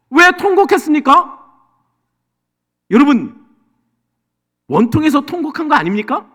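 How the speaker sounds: loud, high, urgent preaching; fervent preaching. Acted. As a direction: press the question on the congregation. Preaching at full force. (높고 크게 외치는 설교)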